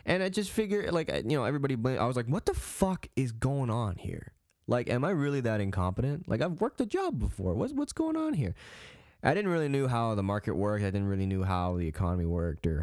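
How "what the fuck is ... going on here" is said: exasperated questioning that climbs in pitch; acted exasperation, not shouted; frustrated. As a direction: let the voice climb in baffled frustration. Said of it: "starting to get frustrated".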